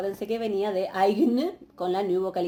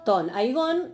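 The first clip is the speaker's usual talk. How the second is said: aigón stressed on its last syllable, GÓN; higher pitch, stress landing on the end of aigón; acento final; 4 semitones higher, 3 dB louder, much slower than usual. Shown as a demonstration. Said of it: "recae el acento en el final de la palabra". (aigón con acento en la última sílaba, GÓN)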